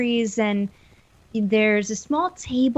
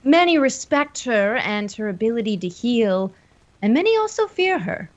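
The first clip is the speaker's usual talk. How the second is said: lightly voiced Elias. Game master as Elias explaining the healer, lightly voiced character. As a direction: lightly play a local man explaining her standing. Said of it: "Elias speaks up and says".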